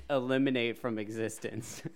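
words broken by laughter; trying to talk through giggles; laughing while asking. Real, not acted. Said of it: "you said it like a little boy".

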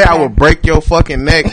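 mock threat. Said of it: "To say".

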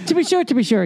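hammed-up Irish catchphrase; mock Irish accent. Co-host teasing about the neighbour's Russian accent, mock Irish. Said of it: "In Irish".

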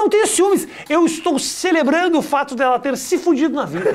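high-pitched protest, retelling an argument; mock-defensive comeback, pitch jumping up; indignant retort. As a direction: protest too much, for laughs. Retells his retort to wife.

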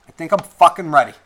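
forceful readiness. Real, not acted. Podcaster bracing for repercussions, forceful readiness.

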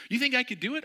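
high, loud eager asking; eager question. Retold or imitated. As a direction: ask eagerly.

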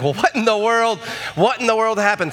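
startled, rising alarm; a jolt of worried surprise. Retold or imitated. Husband jolted by wife's warning, alarmed.

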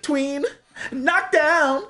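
high hyped-up commentator call; imitating sports commentator. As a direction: mimic a hyped sports reaction guy. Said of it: "He's like".

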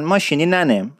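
slow Isfahani ماشینی ننم with drawn-out ی linking; Isfahani accent. Shown as a demonstration. Teacher demonstrating Isfahani speech to learners.

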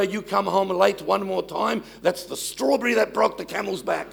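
mock stern Italian dad; a hint of a stern Italian dad scolding his daughter. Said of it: "I said to my daughter".

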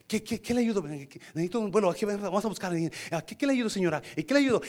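acted excited customer-service voice; eager helper. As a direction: imitate an agent suddenly keen to serve. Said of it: "Me emocioné".

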